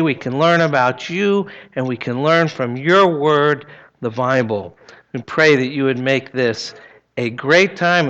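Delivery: put-on gentle, upbeat voice for kids; sweet patient sunday school. Children's prayer time.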